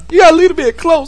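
high-pitched demonstration of the devil voice; devil voice demo. Shown as a demonstration. Host explaining the key to that voice, devil voice demo. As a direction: show how the demonic mama voice works. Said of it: "the key with that voice is".

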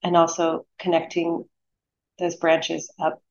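unhurried meditation guide, long pauses between phrases; guided meditation. Acted. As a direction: lead them gently into stillness, phrase by phrase.

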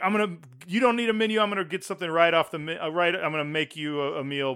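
quick, hammy Italian-accent imitation; bad Italian accent. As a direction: rattle it off in a rough Italian accent. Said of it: "I'm doing a really bad Italian accent".

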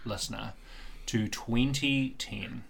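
slow, hushed storyteller setting the scene. Acted. Host invites listeners back in time, slow dramatic narration. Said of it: "Cast your mind back, listener".

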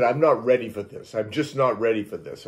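loud, pleading protest; scared pleading. Retold or imitated. Hiding under the covers, pleading with the ghost. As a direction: beg the presence to stop.

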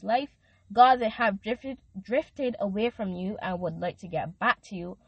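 earnest prayer, lightly set apart from her talk; intercessory prayer. Acted. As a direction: pray over the listener with conviction. Prays for listeners.

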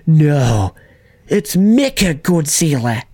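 hammed-up New Zealand accent, vowels squeezed; bad New Zealand accent. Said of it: "I can't really do his accent".

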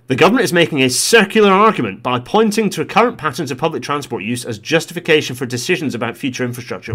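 loud, high-pitched opening, emphatic committee statement; Transport Select Committee voice. Acted. Vlogger reading out the committee's criticism of government, forceful committee voice. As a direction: deliver a damning report line with force, then ease off. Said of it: "Transport Select Committee voice".

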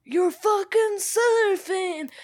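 high, slow whisper of disbelief; imitating Keanu's stunned line; mock incredulous. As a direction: stretch it out in hushed amazement. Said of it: "Johnny Utah's like".

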